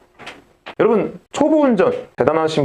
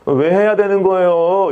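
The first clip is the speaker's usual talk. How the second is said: 투덜대는 학생; 4 semitones higher, slower than usual. Retold or imitated. 반항하는 학생 흉내.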